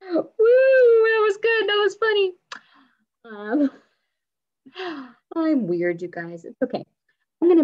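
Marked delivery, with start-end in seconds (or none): 0.1-2.3 laughing. Real, not acted. Teacher laughing at her own silly moment. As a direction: laugh through the words.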